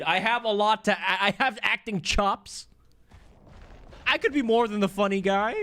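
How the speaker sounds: mock-wounded actor pleading; Khezu voice. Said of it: "He goes".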